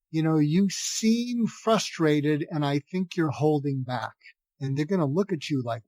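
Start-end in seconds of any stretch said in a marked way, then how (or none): 0.1-4.1 slow, soft and steady, never scolding; calm validating line. Shown as a demonstration. Parent to venting teenager, slow and soft. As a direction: say it slowly, soothing an upset teen. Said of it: "look them in the eye and say".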